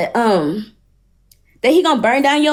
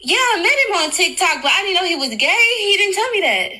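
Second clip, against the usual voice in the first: higher, incredulous rising voice; stunned disbelief; 4 semitones higher than usual. Real, not acted. Learning he was gay, high stunned disbelief. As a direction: sound truly shocked at the news.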